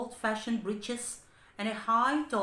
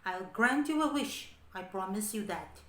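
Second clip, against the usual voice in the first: yelled plea. Acted. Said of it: "he yelled at Patrick's".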